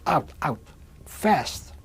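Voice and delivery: mild mock shout of barked orders; urgent soldier's command, only half-shouted; retold soldiers' screaming. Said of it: "German soldiers outside screaming".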